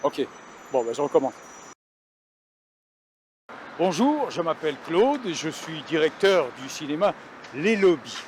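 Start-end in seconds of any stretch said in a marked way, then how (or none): 3.8-8.2 présentateur télé, lent et appuyé; voix de présentateur télé. Acted. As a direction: annonce solennelle comme au journal télé. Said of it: "prends pas cette voix de présentateur télé". (ton de présentateur télé, posé et lent)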